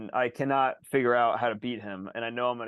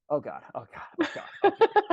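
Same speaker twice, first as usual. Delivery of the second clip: panicked. Retold or imitated. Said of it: "My heart starts going".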